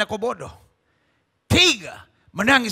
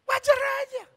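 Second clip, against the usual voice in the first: sudden shout; 12 semitones higher, 5 dB quieter than usual. Acted. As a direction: belt it out to the congregation. Preacher bursts out mid-sermon.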